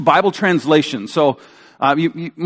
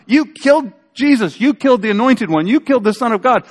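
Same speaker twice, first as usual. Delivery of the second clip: high-pitched, incredulous mock charge; mock accusation; 5 semitones higher than usual. Preacher retelling Peter's offensive sermon close, incredulous mock accusation. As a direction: hit each accusation with amused disbelief, pitched up.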